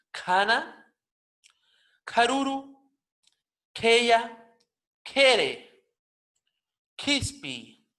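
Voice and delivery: loud back-of-throat breathy K in "kana", "karuru", "keya"; aspirated postvelar. Shown as a demonstration.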